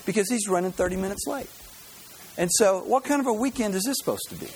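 acted-out complaint, lightly aggrieved; frustrated. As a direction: grumble like a put-upon traveler. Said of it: "it's obvious that you're frustrated".

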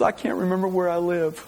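high-pitched mock distress; hammed-up upset punchline, pitched high; mock bawling. Crying old man confesses to the young executive, mock distress. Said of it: "he's just bawling his eyes out".

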